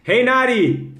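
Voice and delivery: high-pitched hello; hearty greeting. Real, not acted. Host hails Nari on the live, hearty greeting. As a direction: call out gladly to a newcomer.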